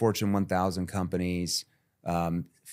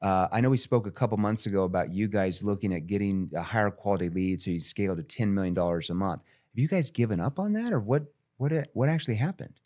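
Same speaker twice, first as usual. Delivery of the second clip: neutral salesperson. Shown as a demonstration. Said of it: "relanguage some of your words where they're a little bit more neutral".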